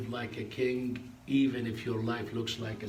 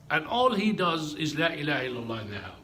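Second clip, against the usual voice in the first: louder, pressing on "all he does"; anguished retelling; 4 semitones higher, 5 dB louder than usual. Retold or imitated. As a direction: lean in with rising grief on "all". Teacher cries over his parrot.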